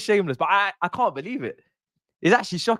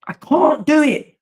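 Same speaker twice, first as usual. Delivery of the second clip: high, slow whiny "I can't do it"; Sam Thompson meme; 10 semitones higher, 4 dB louder, slower than usual. Retold or imitated. Fan imitates a TV celebrity meme for his mate, high slow whine. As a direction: whine it like a reality star at the end of his rope. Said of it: "That's the meme, bruv".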